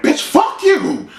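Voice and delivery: imitating mother cursing at daughter; mock mom yelling. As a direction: drag it out like a furious mom. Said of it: "And the mom was like".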